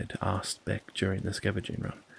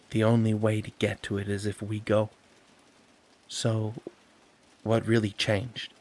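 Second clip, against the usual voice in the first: calm. Acted. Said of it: "She wasn't mad... trying to understand".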